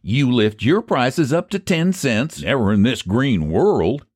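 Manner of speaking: stubborn haggling. Acted. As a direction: dig in your heels over the price. Pie sellers haggling over prices.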